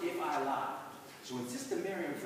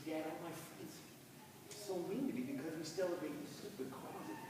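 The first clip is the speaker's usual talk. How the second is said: much softer, tearful complaint; crying; 10 dB quieter than usual. Acted. Boy crying to his dad about mean friends, very soft. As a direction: tell dad through tears. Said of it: "And I cry".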